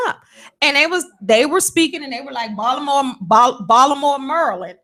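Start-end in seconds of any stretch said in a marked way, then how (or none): 2.5-4.8 Baltimore, Maryland as "Ballamo, Murlin"; Baltimore pronunciation. Retold or imitated. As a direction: drop the t in Baltimore, squash Maryland. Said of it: "To me, that sounds uneducated".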